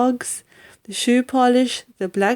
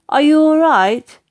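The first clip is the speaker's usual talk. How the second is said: put-on polite boy; 7 semitones higher, 7 dB louder than usual. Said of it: "George asked her politely".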